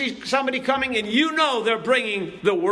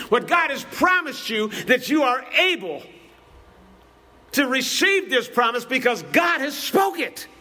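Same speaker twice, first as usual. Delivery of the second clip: preaching at full force. Acted. Preacher urging the congregation, fervent exhortation. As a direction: drive the faith message home.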